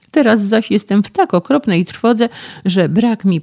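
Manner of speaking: loud, high, panicked pleading; terrified outcry. Acted. Condemned young man cries to the physicist, loud and terrified. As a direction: cry out in dread from the cell.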